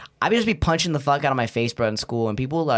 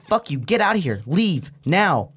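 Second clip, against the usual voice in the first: mock angry dismissal; 3 semitones higher, slower than usual. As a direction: imitate a fed-up classmate kicking someone out. Voices classmate throwing him out.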